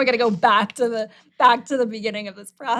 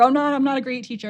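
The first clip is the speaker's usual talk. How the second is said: mock dismay; 4 semitones higher, faster than usual. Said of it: "stuck in this trap of".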